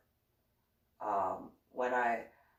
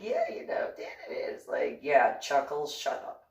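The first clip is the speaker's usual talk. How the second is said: laughing mock. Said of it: "Philip starts laughing".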